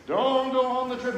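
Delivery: high, loud ghostly call. Shown as a demonstration. Ghost grandmother repeating her warning, eerie and loud. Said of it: "That's my ghost voice".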